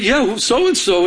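high, drawn-out suspicious question; mock jealousy. Jealous fiancé questioning her about the other man, mock jealousy. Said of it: "so upset and so jealous".

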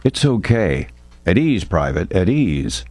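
low, soothing reassurance; calm. Acted. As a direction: settle the frozen private gently. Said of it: "Jimenez who calmly chimed in".

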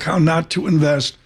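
slight emphasis on Not in the book title; stress on NOT. Shown as a demonstration. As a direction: lean on the word Not in How Not to Invest. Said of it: "with an emphasis on the word not".

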